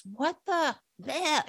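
high, sputtering imitation of yelling; retold scream. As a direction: imitate a woman screaming, held back in volume. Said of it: "she's screaming in my face".

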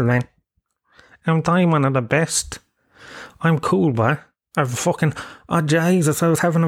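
a hint of a boastful drinker mocked by the speaker; mocking show-off. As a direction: sneer at the crowd as a cocky lad. Mocking cocky pub-goers.

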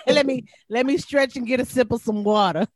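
mock pained, laughing; leg cramp. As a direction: act out a cramp. Mock Charlie horse cramp.

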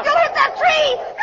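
high, loud screaming warning; terrified scream. Acted. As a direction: scream in terror before the crash. Car about to crash.

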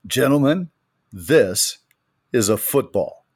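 slow, weighty coach announcement; growled coach line. Retold or imitated. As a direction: deliver it like a stern coach. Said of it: "growled to those men".

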